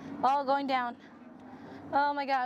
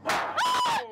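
very high loud shriek; startled scream; 4 dB louder than usual. Real, not acted. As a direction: shriek at the scare. Jump scare in haunted maze.

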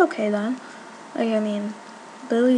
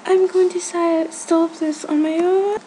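louder, higher, resolute; loud and determined; 6 semitones higher, 5 dB louder than usual. Real, not acted. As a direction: psych yourself up loudly. Deciding to kill spider.

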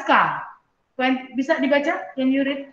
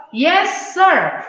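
students answering; 6 semitones higher than usual. Shown as a demonstration. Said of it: "Students-nya rame-rame menjawab".

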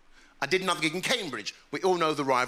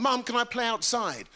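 put-on higher little-boy request; pleading child; 6 semitones higher than usual. Child asking his mum to play outside, higher voice. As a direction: ask Mum like a hopeful kid. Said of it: "As a kid, I remember saying".

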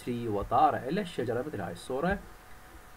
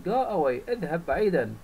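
louder, higher go away; angry go away; 3 semitones higher, 4 dB louder, faster than usual. Acted. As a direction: shoo the fox off, mildly cross. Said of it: "said the bird angrily". (الطير يطرد الثعلب بغضب خفيف)

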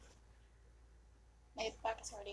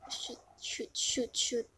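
hushed, urgent curses; panicked whisper; slower than usual. Real, not acted. Player cursing to herself during the game, whispered. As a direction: whisper it like you just got caught.

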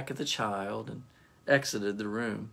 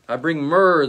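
proud declaration; 3 semitones higher, 8 dB louder than usual. Acted. Proud soldier presents gift.

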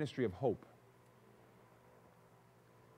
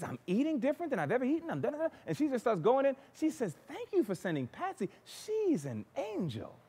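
excited gratitude; 8 semitones higher, 4 dB quieter than usual. Retold or imitated. Mother's grateful energetic report.

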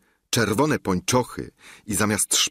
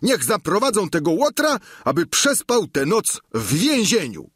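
raised, louder command to the guards; angry order; 11 semitones higher, 3 dB louder than usual. Acted. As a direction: bark the order to lock him up. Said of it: "rzecze rozgniewany Sancho". (gniewny rozkaz, głośniej)

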